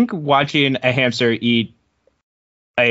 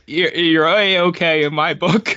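slow, higher, words squeezed through laughter; trying to recover through giggles; laughing recovery; 4 semitones higher, slower than usual. Real, not acted. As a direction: stumble it out while giggling. Laughing after flubbing the line.

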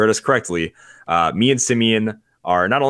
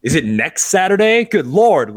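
higher, louder mock shock at the listener; mock astonishment; 7 semitones higher, 5 dB louder than usual. Host teasing the podcast listener, mock shocked.

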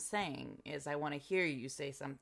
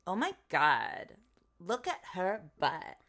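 valley girl impression; 2 semitones higher, slower than usual. Shown as a demonstration. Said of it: "like, an American basic bitch".

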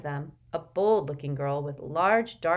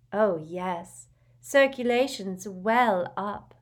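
happy; 4 semitones higher, 4 dB louder, much slower than usual. A narrator's reading. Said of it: "said Luna happily".

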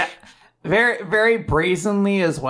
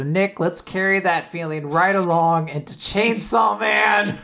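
hype; 3 semitones higher than usual. Real, not acted. Hyping up next segment.

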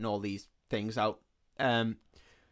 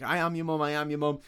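higher-pitched mock insistence; retold firm, higher-voiced denial; insistent denial; 4 semitones higher than usual. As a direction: imitate a mum protesting who she is. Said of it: "fully denying".

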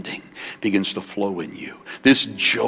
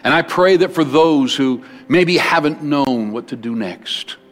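closing prayer. Acted. Prays over the congregation.

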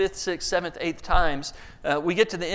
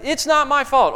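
mocking whine; 8 semitones higher, 6 dB louder than usual. Mimicking child.

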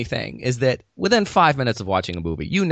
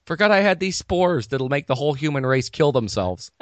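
high-pitched comic tree with sudden revelations; hammed-up, high talking tree; exasperated tree; 7 semitones higher than usual. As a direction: play a tree excitedly remembering its spores. Comic monologue voicing a tree.

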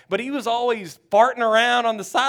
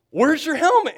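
exasperated shout; 8 semitones higher, 6 dB louder than usual. Retold or imitated. Coach demands helmet.

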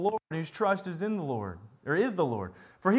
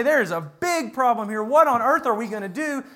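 mock panic; 3 semitones higher, 5 dB louder than usual. Judah panics at Assyria's threat.

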